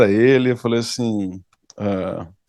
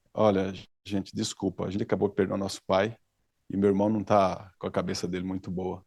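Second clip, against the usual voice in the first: soft apologetic plea; 5 semitones lower, 9 dB quieter than usual. Retold or imitated. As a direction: hush it down like a sorry sister. Sister apologizes to angry stranger.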